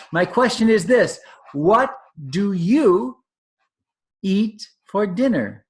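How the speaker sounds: put-on baby elephant calling to the crocodile; squeaky baby elephant. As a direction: call out like an excited young elephant. Baby elephant voiced in story.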